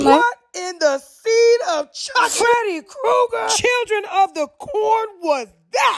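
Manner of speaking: slow scared yell after a jump scare; startled shout. Real, not acted. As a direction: shriek at the fright. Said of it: "Ooh, jump scare".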